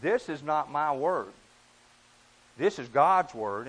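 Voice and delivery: This is not my word, This is God's word, slow with weight on God's; slow emphasis. Retold or imitated. Preacher retelling what he tells people, slow emphatic stress. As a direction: press each word as you tell people. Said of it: "I've tried to emphasize to people".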